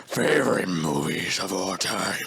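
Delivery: hammed-up drummer impression, halting and grand; a famous drummer. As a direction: intone it in pieces, reverently. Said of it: "do the really good Ringo Starr impression".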